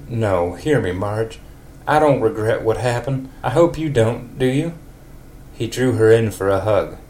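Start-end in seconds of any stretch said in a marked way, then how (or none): 0.1-4.7 a hint of a country neighbour. In a country accent, Ned tells Marge it was wonderful. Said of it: "a super country voice for Ned".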